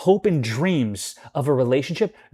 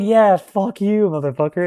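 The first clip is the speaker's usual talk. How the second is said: mock angry curse; 7 semitones higher, 7 dB louder than usual. Cursing at roommate in retelling.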